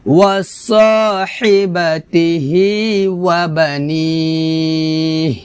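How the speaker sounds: slow chanted tajweed melody; Quran recitation. Shown as a demonstration. Teacher chants the verse for students to repeat. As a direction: sing the line slowly.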